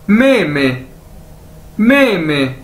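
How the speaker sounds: "मे मे" as two joined syllables, falling at the end; careful language-drill "मे मे"; demonstrated pronunciation. Shown as a demonstration. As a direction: model "मे मे" for learners. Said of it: "दो बार बोला जाए तो".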